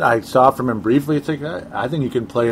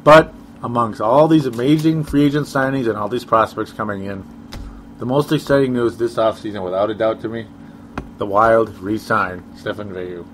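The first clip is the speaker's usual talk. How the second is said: deadpan mock excitement, slowing on the name; sarcastic. Real, not acted. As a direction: build up unexciting news as if it were huge. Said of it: "Okay, I'm being sarcastic".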